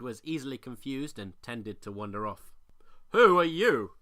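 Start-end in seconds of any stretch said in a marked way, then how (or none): 3.1-4.0 loud, startled question; captain spotting a stranger in the group; surprised. A narrator's reading. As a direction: blurt it out in surprise. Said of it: "he asked in surprise".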